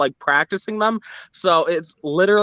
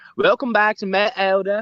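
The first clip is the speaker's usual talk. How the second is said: horrible, bad put-on British accent; 3 semitones higher than usual. Joking about a friend becoming a beauty YouTuber: bad UK accent. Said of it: "me trying to do a U K accent".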